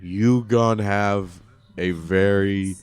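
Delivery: slow, deliberate doctor voice; slow doctor delivery. Retold or imitated. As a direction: drag out each word gravely. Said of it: "trying not to do the Chinese accent, but get her vernacular".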